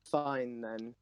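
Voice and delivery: low, curt character voice. Acted. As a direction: drop into a deep voice. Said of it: "Ix's voice gets deeper".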